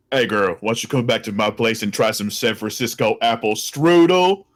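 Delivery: low, slow seduction line; bassy pickup voice. Acted. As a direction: try a deep, slow voice for a chat-up line. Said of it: "too much bass in your voice".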